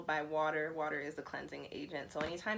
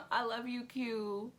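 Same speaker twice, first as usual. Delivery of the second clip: a laughing, higher "I love you"; 6 semitones higher, slower than usual. Real, not acted. Thanking her little brother for the money, laughing. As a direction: laugh it out, overwhelmed and grateful.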